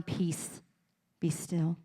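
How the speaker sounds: soft, calm hush of peace; still quiet voice. Acted. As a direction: speak it gently to the storm. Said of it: "hear his still voice".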